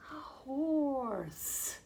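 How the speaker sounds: gasp, then a soft amazed a horse; gasp of surprise. Shown as a demonstration. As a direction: act delighted at the reveal. Surprise reveal for children.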